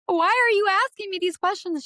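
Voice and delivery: high, loud, fed-up demand; exasperated outburst. Retold or imitated. Caller pushing back at the fraud agent, fed up. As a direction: demand it like you're being accused. Agent questions her like suspect.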